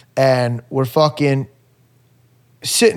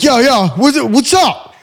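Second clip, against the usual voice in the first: lifted high, mock dazed voice; groggy friend on phone; 9 semitones higher, 3 dB louder than usual. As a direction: play the half-awake buddy picking up, pitched up. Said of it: "he's like".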